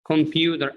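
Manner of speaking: computer said compuder; American flap T. Shown as a demonstration. Teacher shows class computer as compuder. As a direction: soften the T in computer to a D. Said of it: "As if it's written like that".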